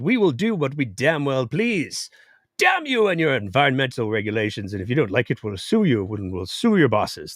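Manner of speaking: mock Australian accent, badly done; a bad put-on Aussie voice for the mining company; terrible Australian accent. Company boss sneering at regulators, bad Australian accent. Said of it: "terrible Australian accent".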